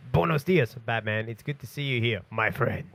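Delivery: put-on cheesy Spanish accent greeting; mock Spanish accent. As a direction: greet him like a cartoon Spaniard. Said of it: "with a Spanish accent".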